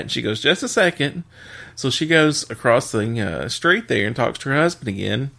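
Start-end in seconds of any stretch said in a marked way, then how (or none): 0.4-1.2 higher-pitched wife's quick aside; mock stalling. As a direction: lightly imitate the wife putting him on hold. Wife stalls customer in joke.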